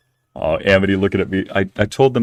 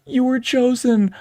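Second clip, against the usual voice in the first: slow, pitched-up chosen-one decree; mock-solemn proclamation; slower than usual. Streamer voicing puffball adopting him, slow mock-solemn decree. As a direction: proclaim it slowly, stretching the words. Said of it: "Chat, Amity goes".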